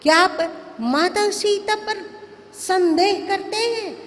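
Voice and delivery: acted outrage on Mother's behalf; indignant challenge. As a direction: challenge him as an affronted son. Acting Lakshman's outraged challenge to Ram.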